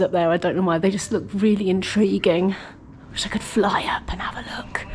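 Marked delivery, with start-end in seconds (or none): 3.1-4.8 wistful whisper. Real, not acted. Wistful look at chambers.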